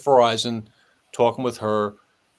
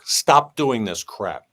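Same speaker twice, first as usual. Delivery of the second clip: stern appeal. Retold or imitated. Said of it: "gave an appeal to the public".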